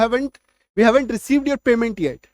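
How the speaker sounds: slowly spelled-out English sentence; slow classroom dictation; slow model sentence. Shown as a demonstration. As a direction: read it slowly for learners. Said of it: "कहते हैं ना".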